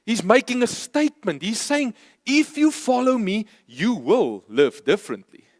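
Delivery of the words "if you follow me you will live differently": matter-of-fact. Shown as a demonstration. Preacher shows Jesus stating a plain fact, calmly. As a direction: state it simply as a fact, no threat. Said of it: "He says it as a fact".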